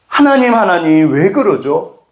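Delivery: high, pleading question to God; plaintive appeal. Acted. Believer asking God why, high plaintive appeal. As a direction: call upward in bewildered complaint.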